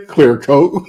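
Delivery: laughing through the words; chuckling as he repeats it. Real, not acted. Laughing while repeating the term.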